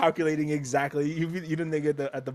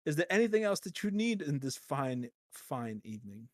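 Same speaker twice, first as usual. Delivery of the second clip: serve the wine with stiff politeness; polite butler voice; slower than usual. Retold or imitated. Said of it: "he comes back".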